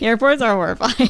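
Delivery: said through a laugh. Real, not acted. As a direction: laugh as you say it. Laughing agreement.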